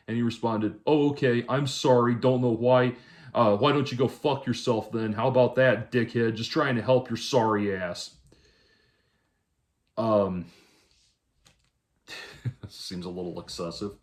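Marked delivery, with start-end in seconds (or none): 0.9-8.2 retold huffy outburst, raised and louder; mock-offended, punchy read-out of an insult; indignant comeback. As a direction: imitate an offended helper lashing out. Quotes the man's hostile reply.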